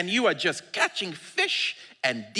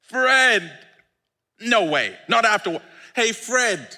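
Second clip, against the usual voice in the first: gentle Jesus; 4 semitones higher, 4 dB louder, slower than usual. Acted. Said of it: "It's like".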